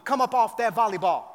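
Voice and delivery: hammed-up street-tough Jesus with a gun; mock stern Jesus. Player's fear of Jesus seizing volleyball, hammed-up menace. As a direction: play a threatening Jesus for laughs. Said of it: "Jesus is gonna have, like, a gun".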